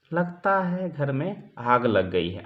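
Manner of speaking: slow, relaxed, no hurry at all; calmly announcing the fire, no panic; calm and unhurried. Shown as a demonstration. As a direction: say it like nothing is wrong. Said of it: "आराम से, निठार से".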